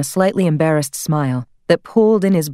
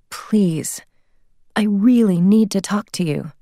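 whispered please, then a higher pleading line; plaintive plea; 4 semitones higher, slower than usual. Acted. Mother begging Lizzie through the answering machine, plaintive. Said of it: "The woman's voice on the machine was plaintive".

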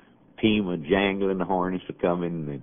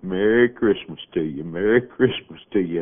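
yelling; 4 dB louder than usual. Retold or imitated. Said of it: "and yelling".

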